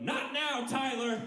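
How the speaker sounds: high, annoyed hiss at a coworker; exasperated guard. Retold or imitated. Flashlight guy scolding Tyler, high exasperated snap. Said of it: "the guy with the flashlight went".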